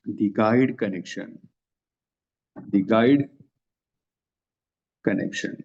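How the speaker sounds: the guide connection said very slowly; slow teacher dictation. Shown as a demonstration. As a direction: spell out the name for the class. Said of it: "जिसका नाम है".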